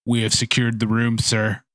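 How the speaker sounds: mildly condescending kobold soldier; almost condescending. Acted. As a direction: report to a superior with a touch of condescension. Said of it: "look to you almost condescendingly".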